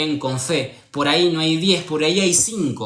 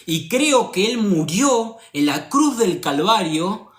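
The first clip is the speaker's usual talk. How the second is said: retold earnest prayer; 2 semitones higher than usual. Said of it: "le pedí a Dios y le dije".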